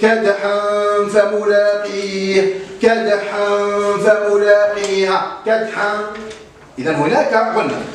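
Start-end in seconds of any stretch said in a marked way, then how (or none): 0.0-5.9 very slow, drawn-out recitation of the phrase; slow repeated recitation. Shown as a demonstration. Teacher repeating the verse slowly so pupils hear the ikhfa. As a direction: linger on the tanween before the fa. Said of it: "لاحظوا معي".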